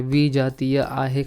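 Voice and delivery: विजातीय आहे stretched out, very slow; slow emphasis. Shown as a demonstration. Teacher stresses विजातीय slowly for students. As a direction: dwell on विजातीय so it sinks in. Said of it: "teacher repeats answer slowly".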